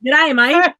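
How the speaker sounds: loud, rising G'day, mate in an Australian twang; Australian accent. Shown as a demonstration. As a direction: tries her best G'day, mate Aussie-style, mate rising at the end. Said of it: "I need to practice that".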